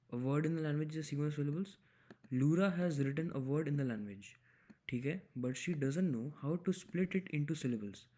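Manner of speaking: slow, careful reading of the problem text; reading aloud. Acted. Tutor reading the problem statement to viewers, slow and careful. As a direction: read the statement out slowly, word by word.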